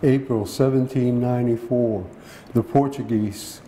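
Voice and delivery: measured poem reading in short phrases; poetry reading. Acted. Poet reads a poem to the audience, measured recital. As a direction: read it as verse, pausing between phrases.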